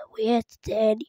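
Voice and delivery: unvoiced disappointed whisper; whispered groan after failing. Real, not acted. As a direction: breathe it out in defeat. Muttering after falling again.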